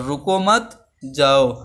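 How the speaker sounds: slow रुको मत as one unit, then जाओ apart; pause after मत. Shown as a demonstration. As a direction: join रुको मत, break before जाओ. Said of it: "दोनों में सेंटेंस में मीनिंग में चेंजेस". (मत के बाद ठहराव)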